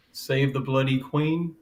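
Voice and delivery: slow, hammed-up British accent; badly faked British accent; British accent attempt. Shown as a demonstration. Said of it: "I'll give the British accent a shot".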